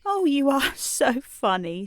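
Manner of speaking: high, amused exclamation with a laugh. A narrator's reading. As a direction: laugh lightly through the words. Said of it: "Tearful laughed again".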